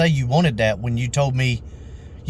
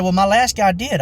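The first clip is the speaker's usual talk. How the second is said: higher-pitched mock customer comeback; indignant retort; 7 semitones higher than usual. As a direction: imitate a customer snapping back, lightly hammed-up.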